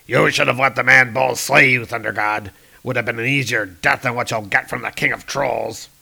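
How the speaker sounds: lightly voiced menacing troll king; a hint of a gloating brute; troll king Ulik. Ulik threatens Thor.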